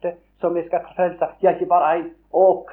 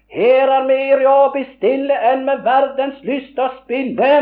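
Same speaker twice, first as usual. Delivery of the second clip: high, loud ringing hymn close; ringing climax; 7 semitones higher, 5 dB louder than usual. Real, not acted. Preacher ending the hymn verse, high and loud. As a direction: ring the last line out.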